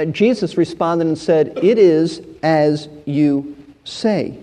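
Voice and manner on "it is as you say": slow, lowered reading of the words; slow and low. Shown as a demonstration. Preacher reads Jesus' answer slowly and low. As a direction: let "It is as you say." sink slow and low. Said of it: "I'm looking at the end of verse two".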